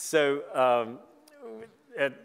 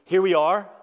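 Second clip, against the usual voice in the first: eager lightning bolts; 5 semitones higher, 7 dB louder than usual. Pretend. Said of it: "that they may go and say to you".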